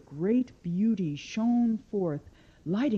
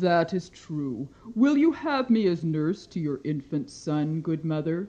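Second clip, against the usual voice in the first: lightly voiced goddess; 3 semitones lower than usual. Demeter voiced in story.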